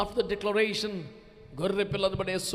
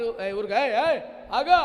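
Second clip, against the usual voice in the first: louder, sharp mock hushing; hushing rebuke; 8 dB louder than usual. A self-important man silencing the blind beggar, mock loud.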